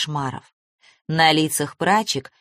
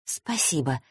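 grumbled; 7 dB quieter than usual. Acted. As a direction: grumble it under your breath. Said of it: "буркнула я".

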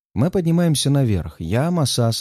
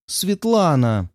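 horrified cry; 4 semitones higher, much slower than usual. Acted. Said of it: "В ужасе вскрикивает Настя".

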